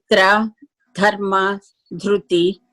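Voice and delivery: R in "tra", "dharma", "dhruti" made with tongue touching behind the top teeth; demonstrating the dental R in "tra", "dharma", "dhruti". Shown as a demonstration. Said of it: "tongue touches the back of the teeth".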